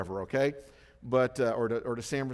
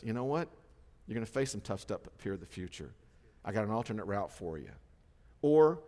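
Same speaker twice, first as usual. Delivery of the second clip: gentle God voice; 5 semitones lower than usual. Retold or imitated. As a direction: calmly tell them to wait. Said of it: "that God says".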